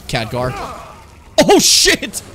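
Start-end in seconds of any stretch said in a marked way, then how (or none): 1.4-2.2 high, loud yell of alarm; alarmed shout. Real, not acted. Player caught out in the game, alarmed yell. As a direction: burst out in sudden shock.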